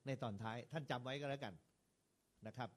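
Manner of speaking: normal talking voice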